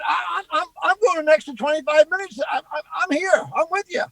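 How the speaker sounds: hammed-up, stammering show of devotion; mock rallying.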